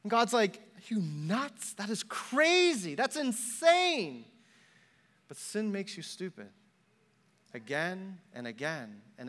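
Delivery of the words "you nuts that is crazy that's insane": drawn out, rising higher in disbelief; acted incredulity. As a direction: stretch the words in mock disbelief. God's incredulous reply, acted out.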